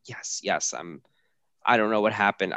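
understated, obedient answers; reply plainly as if to authority; matter of fact. Retold or imitated. Husband answering authority after fainting, mildly matter of fact. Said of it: "I'm being very matter of fact".

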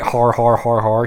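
spoken-out "har har" laugh; evenly spaced, half-hearted guffaw; mock laugh. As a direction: imitate a man laughing as he leaves. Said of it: "He, he laughs as he ascends".

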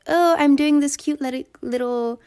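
high, loud, sugary mock influencer voice, slowing at the end; cutesy Hailey Bieber. Mocking Hailey Bieber showing her makeup on TikTok, high sugary gush. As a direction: gush sweetly about your cute little look. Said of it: "she was like".

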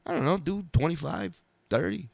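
lightly voiced offhand comic star; Dice. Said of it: "And he goes".

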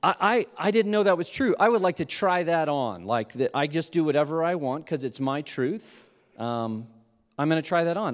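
hammed-up fake excitement; sarcastic show of delight; condescending tone. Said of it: "in my most condescending tone I could muster".

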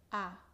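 a said wide open, mouth open. Shown as a demonstration. Teacher shows the open Spanish a to learners. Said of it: "abre bien la boca".

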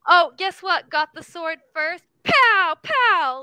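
cute, loud little gamer boast; adorable high-pitched voice. Retold or imitated. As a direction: chirp the re-enacted taunt, punching the pows. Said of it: "adorable high-pitched voice".

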